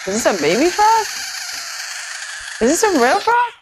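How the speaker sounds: high, loud disgusted shriek; shocked squeal. Real, not acted. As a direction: squeal in horror at a frog. Disgusted reaction to frog video.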